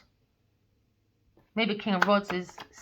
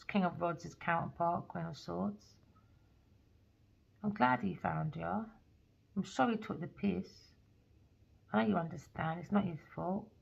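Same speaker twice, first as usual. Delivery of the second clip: soft reassuring king; 3 semitones lower, 5 dB quieter than usual. Acted. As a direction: comfort her gently. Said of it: "He said".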